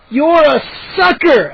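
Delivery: high, slow gleeful taunt; spring the prank, stretching the insult; exclaiming. A narrator's reading. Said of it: "I exclaimed and burst out".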